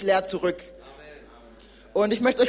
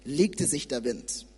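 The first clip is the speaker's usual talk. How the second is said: scripture reading; 2 semitones lower than usual. Acted. Young preacher reads Matthew to church, measured reading. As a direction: read the sea story to the congregation.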